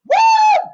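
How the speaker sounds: very high, loud "woo"; excited whoop. Real, not acted. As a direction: whoop at full voice in celebration. Cheering the congratulations.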